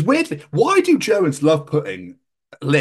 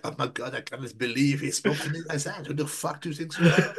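mock French dog; 6 dB quieter than usual. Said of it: "The French are like".

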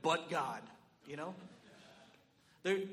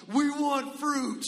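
slow, higher chant of "We want fruit"; mock demand; 7 semitones higher, 10 dB louder, much slower than usual. Guests raiding rooms for fruit, mock chant.

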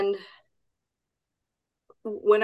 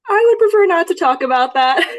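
higher and louder, a teasing mock-formal no; playful refusal; 9 semitones higher, 7 dB louder than usual. Real, not acted. Guest playfully declining the host's personal question, teasing. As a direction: turn the question down with a grin, half joking.

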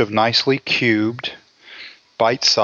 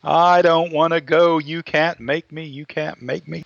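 put-on whiny kid refusing; 4 semitones higher than usual.

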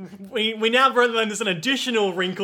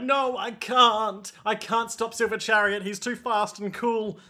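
higher, hammed-up helpless protest; mock helpless panic; 5 semitones higher than usual. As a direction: play the overwhelmed crowd, pitched up. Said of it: "they're all like".

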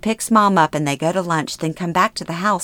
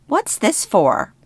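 put-on higher, slow puzzled old mother; confused mother; 5 semitones higher, slower than usual. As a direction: ask it slowly, lost and puzzled.

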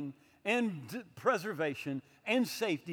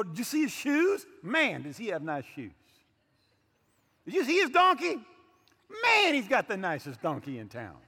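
mock excited gushing; 2 semitones higher, 5 dB louder than usual. Preacher mocks crowds admiring Jesus' things, hammed-up gushing. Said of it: "They didn't go".

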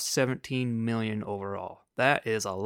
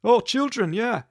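much higher, louder sing-song villain voice; mock cheerful villain; 11 semitones higher, 5 dB louder than usual. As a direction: play a gleeful cartoon villain. Voicing Nazi doctors cheerfully.

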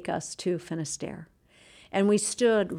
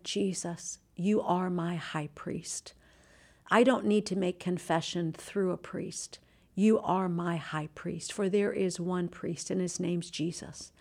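softer, slow murmured prayer; hushed prayer; 5 dB quieter, slower than usual. Retold or imitated. Pilgrim praying to Jesus in the cathedral, hushed. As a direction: pray it quietly to Jesus.

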